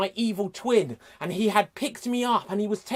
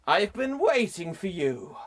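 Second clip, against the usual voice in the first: sinister villain voice. Acted. Sinister reveal, slow.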